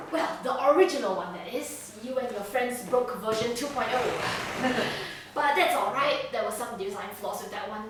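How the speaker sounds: showy host, self-satisfied asides; smugly pleased. Acted. Villain presents his bunker to prisoner, smugly. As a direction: announce proudly, then preen a little. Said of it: "he's just very happy with himself".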